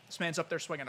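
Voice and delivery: words cut by a burp. Real, not acted. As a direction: talk right through a burp. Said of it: "I just burped".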